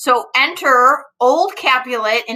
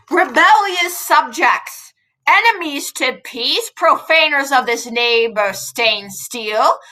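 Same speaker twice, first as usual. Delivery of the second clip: commanding prince; 3 semitones higher than usual. Acted. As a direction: declaim it like an angry ruler. Reading the angry Prince.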